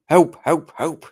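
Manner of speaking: high, loud, short helps; a famous drummer. Acted. Imitating a third narrator's scream, high loud cries. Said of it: names a famous drummer.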